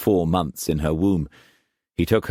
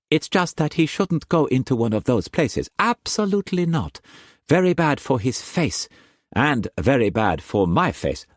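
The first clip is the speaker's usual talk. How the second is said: Mei Mei's voice; 6 semitones higher than usual. A narrator's reading. Mistress teasing Struan in bed, high playful voice. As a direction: tease him in a high bright voice.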